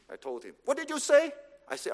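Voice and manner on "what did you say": higher-pitched mock disbelief; taken aback. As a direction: act out a boss who can't believe the answer. Boss reacts to unexpected answer.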